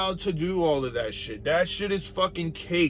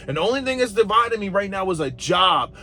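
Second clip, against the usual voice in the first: heated shout; 5 semitones higher than usual. Real, not acted. Heated rant about his job.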